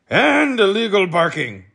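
high, loud charge; officious policeman. A narrator's reading. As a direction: add the crime smugly.

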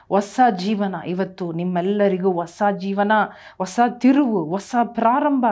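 rising, impassioned preaching voice; fervent preaching. Acted. Pastor preaching healing to the congregation, fervent. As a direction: preach healing to the crowd with fire. Full-force healing sermon.

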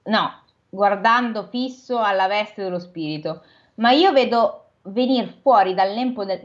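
measured storybook reading voice; steady read-aloud narration; story narration. A narrator's reading. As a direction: read it like a classic novel aloud. Reads the novel aloud.

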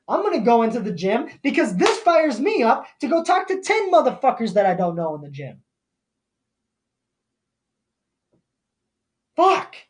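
real fired-up rant, emphatic. Real, not acted. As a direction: push it out like a worked-up motivator. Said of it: "I ain't fired up about this one".

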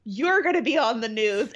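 mock deadpan grandmother. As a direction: say it with a dead stare, unimpressed. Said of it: "looks at him, like, dead ass and goes".

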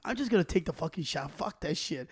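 his sister quoted with a soft, deflated mock voice. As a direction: mutter it like a giving-up sister. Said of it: "Y mi sister".

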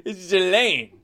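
slow, emphatic GHISLAINE, no S; silent S. Shown as a demonstration. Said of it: "the S isn't pronounced".

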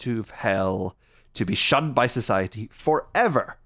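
lightly hammed-up show intro; a hint of a spooky show host; segment announcer.

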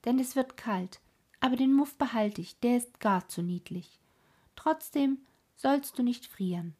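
put-on brash and bossy like a wild child; lightly voiced cheeky robber girl; bold robber girl. Robber girl gives Gerda boots.

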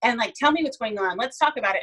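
high, cooing mother fussing over a boo-boo; baby the hurt girl, pitch up high; cooing to a little girl. Retold or imitated. Mother coos over daughter's boo-boo, high and tender. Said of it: "girls are brought up to be like".

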